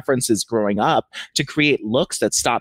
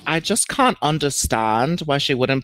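put-on Vivian's accent. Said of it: "how do you have that accent down".

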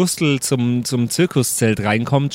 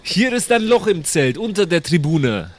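higher, firm and commanding; 5 semitones higher than usual. Acted. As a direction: tell him firmly what to do. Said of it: "Ich sag das sehr bestimmt".

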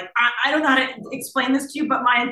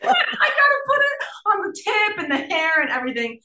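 higher, loud laughing outburst; 11 semitones higher, 4 dB louder than usual. Real, not acted. Telling the coconut oil moment, laughing loudly. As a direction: laugh through the gross part.

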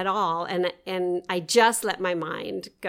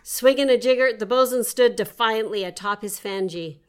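playful storybook read; story narration. Acted. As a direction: read it like a tall sea tale. Reads her nonsense story aloud.

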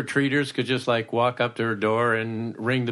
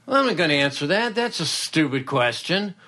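mock-indignant, higher quick refusal; indignant celebrity; 4 semitones higher than usual. Celebrity refusing an interviewer's question, mock indignant. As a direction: balk like an offended celebrity. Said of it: "the celebrity goes".

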